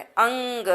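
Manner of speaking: अंग said with a clear nasal ng before the g; nasal demo. Shown as a demonstration. Teacher showing children how अनुस्वार sounds in अंग. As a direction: sound out अंग, letting the ng ring through the nose. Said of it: "अंग बोलते हैं".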